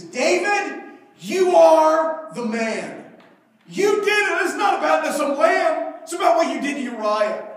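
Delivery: loud, high accusation; the prophet Nathan thundering at King David; accusing prophet. Acted. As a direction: point the finger and call him out loud.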